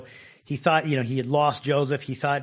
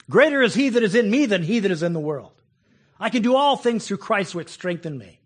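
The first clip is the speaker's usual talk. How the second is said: emphatic declaiming; 4 semitones higher, 6 dB louder than usual. Acted. Preacher declaims scripture loudly.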